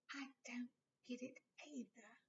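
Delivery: soft whisper; hushed. Acted. Harry whispering to Ron in the dorm. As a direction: whisper so the others sleep. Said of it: "Keeping his voice low".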